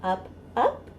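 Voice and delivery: sing-song rhyme, rising on up and falling to a whisper on down; playful action rhyme. Shown as a demonstration. Librarian demonstrating a baby bounce rhyme, sing-song. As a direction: act out the directions for a baby. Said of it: "it goes like this".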